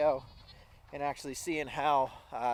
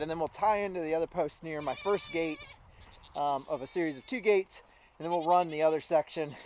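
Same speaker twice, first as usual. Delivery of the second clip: winded, talking between breaths; out of breath from the fence work. Real, not acted. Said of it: "I'm out of breath already".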